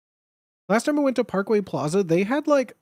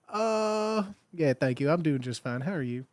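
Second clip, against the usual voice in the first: put-on sweet Southern accent. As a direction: play a polite customer with a Southern accent. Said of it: "in your sweet southern accent".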